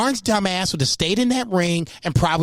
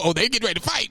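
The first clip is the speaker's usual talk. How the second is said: mock uh-oh; 7 semitones higher, much faster than usual. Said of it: "that's what I was like".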